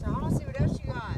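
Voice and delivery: high, fast pet talk; squeaky praising a dog. Real, not acted. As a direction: coo at the pet, high and quick.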